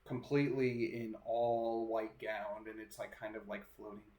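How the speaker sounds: slow, deliberate ghost-story narration; drawn-out narration with suspenseful pauses; game master's scene setting. Acted. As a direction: describe the apparition piece by piece, unhurried.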